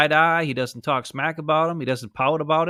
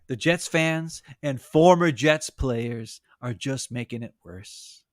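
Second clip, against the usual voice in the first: slow mock-sincere quote; 3 semitones lower, slower than usual. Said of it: "he said".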